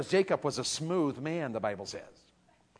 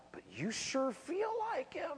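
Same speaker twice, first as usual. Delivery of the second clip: mock old father; 11 semitones higher, 12 dB quieter than usual. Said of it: "and his dad goes".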